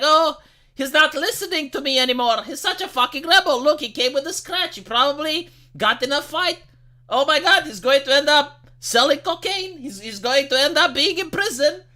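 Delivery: lightly hammed-up worry, no real crying; imitated fretting mother. Mother fretting over her son's scratch, mock-distraught. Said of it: "mother starts crying 'cause she's like".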